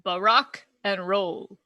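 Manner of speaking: slow, halting punchline delivery; lightly imitated presidential hesitation; Obama buffering. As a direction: stammer into the pun, drawn out. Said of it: "that's him buffering".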